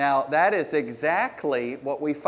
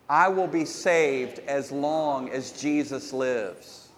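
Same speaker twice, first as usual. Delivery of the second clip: slow, deliberate affirmation; proper declaration; slower than usual. Shown as a demonstration. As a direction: declare it slowly with conviction. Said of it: "This is it".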